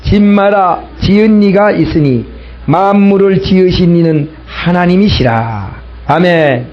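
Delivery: slow, measured congregational reading; deliberate recital with drawn-out phrase endings; scripture reading. Acted. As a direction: lead the congregation through the verse, phrase by phrase. Leads congregation reading scripture aloud.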